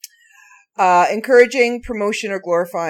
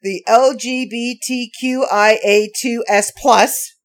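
rattled off without a breath; all in one breath; 3 semitones higher, 4 dB louder than usual. Shown as a demonstration. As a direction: race through the letters in one breath. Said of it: "let me see if I can get 'em all in one breath".

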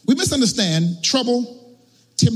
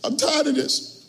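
crying devil; 2 semitones higher, 5 dB quieter than usual. Acted. Satan moans to God outside a church, mock crying. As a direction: act a devil pitifully fed up. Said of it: "and he's crying".

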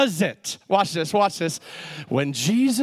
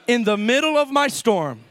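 prophetic declaration. Shown as a demonstration. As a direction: declare it for the congregation to repeat. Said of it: "Say this prophetically".

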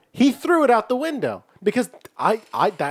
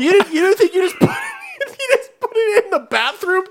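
shocked disbelief; 9 semitones higher than usual. Real, not acted. Listener shocked by story.

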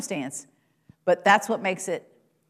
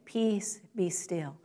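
soft call and response; 7 dB quieter, much slower than usual. Shown as a demonstration. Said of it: "Say it with me".

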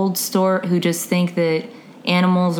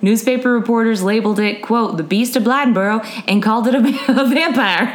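put-on Southern accent. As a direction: read it with a gentle Southern accent. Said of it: "bad Southern accents I did".

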